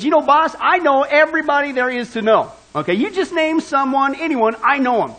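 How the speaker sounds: mildly boastful acted quote; bragging. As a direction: brag lightly to the boss. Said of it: "he was bragging to his boss".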